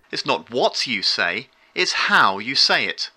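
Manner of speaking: rising on the first half, falling on the second; questing tune. Shown as a demonstration. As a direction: lift "say" at the end of the first part, then land on "how". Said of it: "Raising the tone of the voice at the end of the first part".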